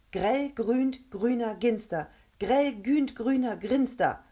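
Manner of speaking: high, loud, slow deliberate delivery; careful attempt. A narrator's reading. Rebecca tries her tongue twister, slow, careful and high. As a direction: say "Grell grünt grüner Ginster" slowly, slipping to "Grinster". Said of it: "dachte die Worte ganz genau".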